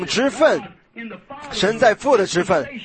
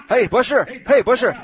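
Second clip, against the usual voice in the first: casual call-out; 4 semitones higher than usual. Shown as a demonstration. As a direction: call out casually across a room. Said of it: "这又怎么样？".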